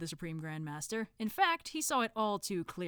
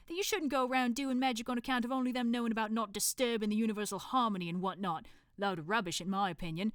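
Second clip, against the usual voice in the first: put-on Cockney accent; 4 semitones higher than usual. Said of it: "thick Cockney accent".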